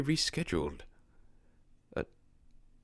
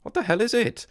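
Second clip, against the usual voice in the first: higher and louder, frightened yell; panicked shout; 6 semitones higher, 7 dB louder than usual. Acted. Panicked as monster approaches.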